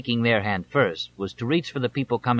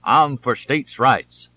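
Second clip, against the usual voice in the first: slow, mumbled drawl round a pipe; muttering through a pipe stem; 4 dB louder, much slower than usual. A narrator's reading. Candidate mocking his rival at a rally, slow mumble. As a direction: mutter it like a pipe-chewing old politician. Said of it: "he would mutter through the pipe stem".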